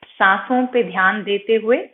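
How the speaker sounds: slightly softened meditation voice with long pauses; guided meditation. Acted. Yoga teacher guiding students' attention from toes upward, calm meditation voice. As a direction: guide attention gently through the body, unhurried.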